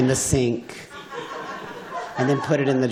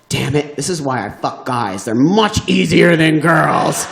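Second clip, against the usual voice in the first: frustrated outburst; 3 semitones higher, 5 dB louder than usual. Retold or imitated. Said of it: "I said".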